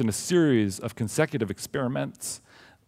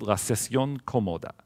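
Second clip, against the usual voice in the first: Spanish title in a heavy American accent; anglicized Spanish, clumsy vowels; gringo accent spanish. Real, not acted. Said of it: "excuse my Spanish pronunciation".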